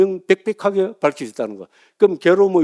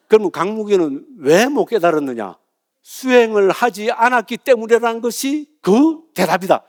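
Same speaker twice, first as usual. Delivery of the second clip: raised, slow declaiming of scripture; measured public pronouncement; solemn recitation; 5 semitones higher, 3 dB louder than usual. Acted. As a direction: proclaim the question and its answer, word by word. Recites scriptural question and answer.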